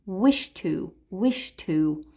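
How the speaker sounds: "Wish to" run together with no D sound; one word. Shown as a demonstration. Teacher repeating the linked "Wish to" for learners. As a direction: blend "Wish to" into a single word. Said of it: "as if it were one word".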